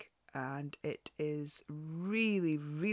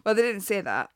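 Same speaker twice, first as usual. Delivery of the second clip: amused, laughing aside, higher and louder; 4 semitones higher, 9 dB louder, faster than usual. Real, not acted. Podcaster owning up after her silly pattern voice, laughing. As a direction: laugh through the admission.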